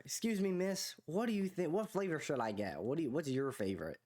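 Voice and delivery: mock Southern accent, starting high and easing down; put-on Southern accent. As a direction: imitate a girl's fake Southern accent. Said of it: "they say it with a southern accent".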